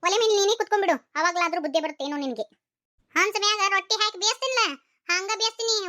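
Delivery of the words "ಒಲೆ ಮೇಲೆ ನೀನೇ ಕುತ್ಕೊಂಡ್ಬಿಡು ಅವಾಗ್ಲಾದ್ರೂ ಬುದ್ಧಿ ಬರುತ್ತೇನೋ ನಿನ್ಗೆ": angry snap. Acted. Mother-in-law scolds daughter-in-law.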